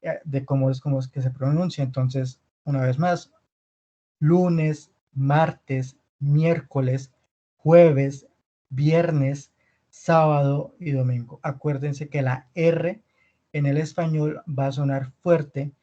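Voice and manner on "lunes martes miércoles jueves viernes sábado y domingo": "lunes", "martes", "miércoles" said one by one, clearly; repeat-after-me pronunciation. Shown as a demonstration. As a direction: model each weekday from "lunes" to "domingo" with pauses for repeating. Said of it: "vayan repitiendo después de mí".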